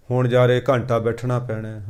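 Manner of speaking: low, subdued grumble; reluctant, duty-bound. Acted. Preacher mimicking a devotee facing an hour's sitting, reluctant grumble. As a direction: complain under your breath about a chore. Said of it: "ਅਸੀਂ ਕਰਦੇ ਹਾਂ ਬੱਧੇ ਰੁੱਧੇ".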